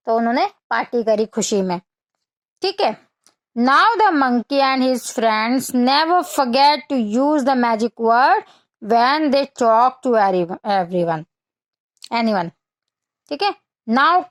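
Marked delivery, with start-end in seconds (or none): 3.6-12.5 put-on slow, clear read-aloud for children; slow storybook reading; story reading. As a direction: read each word out slowly for little kids. Reads English storybook text to children.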